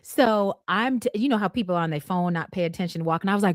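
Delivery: normal talking voice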